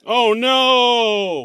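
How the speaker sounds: high, loud mock gasp of dismay; hammed-up shock; mock horror. Mock dismay at comic change.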